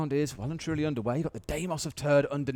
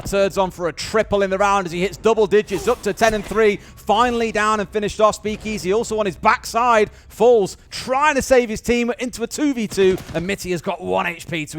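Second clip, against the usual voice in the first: higher, louder esports call; live play-by-play; 4 semitones higher, 5 dB louder than usual. Real, not acted. Caster calling a player's triple, excited play-by-play. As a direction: build excitement through the kills.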